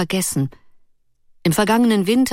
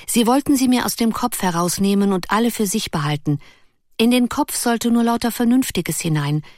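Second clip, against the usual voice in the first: put-on higher, eager young girl's voice; girlish Ruth; 5 semitones higher than usual. Ruth eagerly explains her idea to Erik, higher girlish voice. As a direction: lift into the lively girl's voice.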